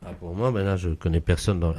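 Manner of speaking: from another room. Acted. Seller walks up to phone.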